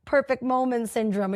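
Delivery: mock manifesto shout; mock rallying declaration. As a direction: proclaim it to the crowd, hammed-up. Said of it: "I'm over here like".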